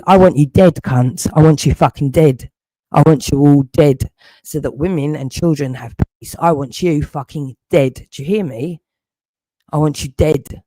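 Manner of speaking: angry outburst. Real, not acted. Angry threats at online watchers.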